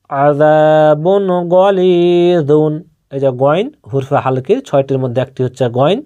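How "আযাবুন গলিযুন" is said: আযাবুন গলিযুন read slowly, with the alif in আযাবুন held one count; slow recitation. Shown as a demonstration. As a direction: chant আযাবুন গলিযুন at a teaching pace. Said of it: "জাহির করে তাড়াতাড়ি পড়তে হবে".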